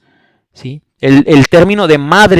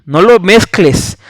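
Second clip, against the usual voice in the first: ordinary delivery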